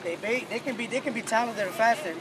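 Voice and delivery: rally the team, rising fire; building pep talk. Real, not acted. Coach building pregame speech.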